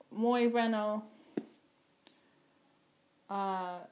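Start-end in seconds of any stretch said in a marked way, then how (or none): 0.1-1.0 "muy bueno" in heavy American-accented Spanish; "muy bueno" said like an English speaker. Real, not acted. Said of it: "Sorry for my terrible Spanish".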